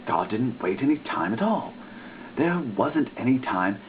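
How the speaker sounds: plain reading voice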